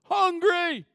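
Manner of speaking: "Hungry" high and loud, falling; emphasized hungry. Shown as a demonstration. Preacher hammering the key word for the church. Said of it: "Emphasize, operative word".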